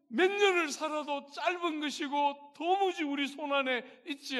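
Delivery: loud, high, impassioned sermon climax; preaching at full force. Acted. Preacher urging the congregation about life's shortness, loud impassioned preaching. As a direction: thunder the point from the pulpit.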